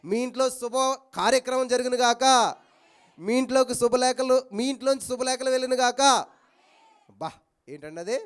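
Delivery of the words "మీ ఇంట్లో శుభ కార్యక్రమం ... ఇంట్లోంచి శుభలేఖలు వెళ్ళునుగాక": 1 solemn blessing. Acted. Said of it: "నేను మీకు చెప్తున్నాను ఇప్పుడు".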